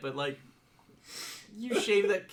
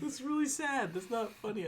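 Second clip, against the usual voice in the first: laughing; 4 semitones higher, 6 dB quieter than usual. Real, not acted. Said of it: "I don't know why I'm laughing at that".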